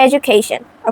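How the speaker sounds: "education" as e-joo-cation. Shown as a demonstration. Giving learners an example, "education" with J for D. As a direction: turn the D of "education" into J. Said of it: "জে এর মতো হয়".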